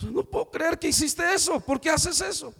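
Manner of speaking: high, shocked disbelief after a slap; a high, stunned why-would-you. Retold or imitated. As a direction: gasp out the shock of being hit. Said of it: "como diciendo".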